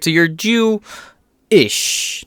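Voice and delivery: "Jew-ish" very slow, "ish" split off; stress on ish. Shown as a demonstration. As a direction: drag out "Jew-ish" in two parts. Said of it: "Not Jewish, just Jew-ish".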